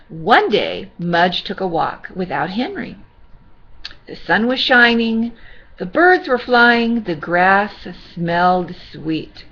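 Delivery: gentle storybook reading voice; sweet old lady. Acted. Reading to children.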